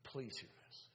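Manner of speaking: soft, low, with weighty pauses; hushed, deliberate sermon close; earnest hushed appeal. Real, not acted. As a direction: plead quietly for their attention. Solemn appeal closing the sermon.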